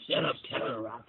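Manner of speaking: imitated soft, gentle anime voice; Vegeta. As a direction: say it softly, mimicking a gentle-voiced character. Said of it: "Very soft, gentle voice".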